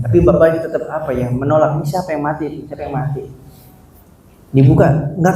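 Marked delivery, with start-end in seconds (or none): 1.8-3.2 much softer, bewildered mumble; forgetful husband, softly asking who died; dazed quiet question. Retold or imitated. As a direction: ask under your breath, not understanding.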